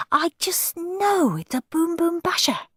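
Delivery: put-on high, thrilled child's certainty; bursting with hope; eager excitement. Henry sure of his gift.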